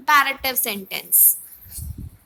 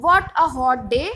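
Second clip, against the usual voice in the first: a touch louder, lightly exclaimed; exclamation; 6 dB louder than usual. Shown as a demonstration. Teacher demos turning a statement into an exclamation, mildly exclaimed. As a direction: make it sound like a mild exclamation. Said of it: "If we want to make it an exclamatory sentence".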